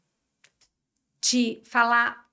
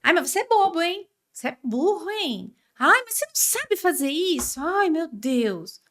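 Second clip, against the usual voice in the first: mocking parent insulting child; 3 semitones higher than usual. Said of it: "E eu falo xingo, é assim, ó".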